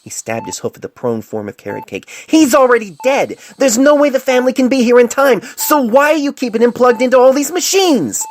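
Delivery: enraged shouting doctor; furious shouting. Acted. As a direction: shout at your boss in outrage. Enraged confrontation at superior.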